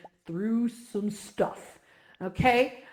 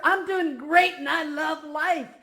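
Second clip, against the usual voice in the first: cheerful reply; 7 semitones higher, 4 dB louder, slower than usual. Retold or imitated. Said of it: "Or you'll hear".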